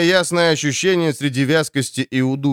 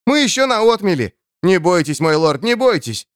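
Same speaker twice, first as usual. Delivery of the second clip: shouting; 5 semitones higher than usual. Acted. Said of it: "кричал охотник".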